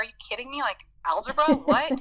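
an amused "are you kidding" outburst; incredulous. Retold or imitated.

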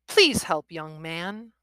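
put-on frail old man. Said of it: "the frail voice".

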